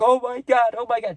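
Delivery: a hammed-up sobbing "oh my God" from someone on the phone; mock crying stranger. Stranger on the phone at the movies, mock panicked wail. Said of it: "bawling their eyes out".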